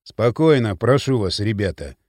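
low-pitched call for calm; soothing appeal. A narrator's reading. Спартак calming the agitated men, low-pitched and soothing. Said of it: "Спартак успокаивал".

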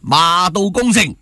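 cheerful new year wishes. Real, not acted. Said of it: "每人講一句吉利嘅說話啦".

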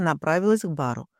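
ordinary delivery, nothing marked

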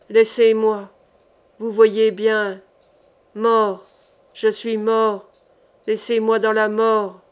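slow, insistent dead man's voice; mysterious fury. Acted. The corpse furiously begs the sorcerer to leave it dead. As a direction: push him away with uncanny fury. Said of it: "avec une sorte de mystérieuse furie".

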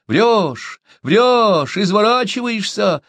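high, loud accusing yell. A narrator's reading. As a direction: shout him down together. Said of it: "заорали".

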